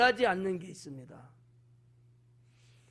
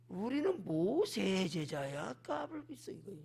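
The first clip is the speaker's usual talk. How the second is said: authoritative; 6 dB quieter than usual. Acted. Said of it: "상당히 권위적으로 지금 말하고".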